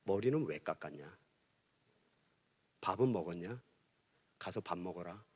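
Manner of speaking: quietly, like a stern father who has gone soft; gentle father. Retold or imitated. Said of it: "하시는 말이". (아주 낮고 부드러운 아버지 목소리로)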